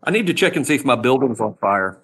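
loud over a blaring alarm; shouting over fire alarm. Real, not acted. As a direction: raise your voice over the alarm noise.

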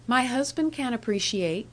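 a touch of pride, head held high; lightly voiced young wife, proud of her husband. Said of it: "she answered very proudly".

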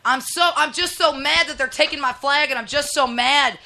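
mock the flag crowd with fake sulking; sarcastic pouting impersonation of a racist; mock outrage.

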